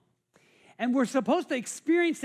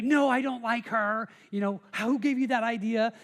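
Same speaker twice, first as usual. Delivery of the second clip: mock denial; 3 dB louder than usual. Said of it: "you were, like, trying to deny it".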